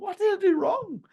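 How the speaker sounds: high puzzled cry; baffled salesman asking himself; bewildered. Retold or imitated. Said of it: "You think".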